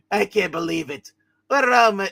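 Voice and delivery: lightly voiced figure, in disbelief; wrong character voice. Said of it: "that's the wrong voice for him".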